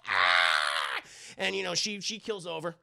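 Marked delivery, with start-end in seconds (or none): 0.1-1.0 mock pained cry. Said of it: "She's like".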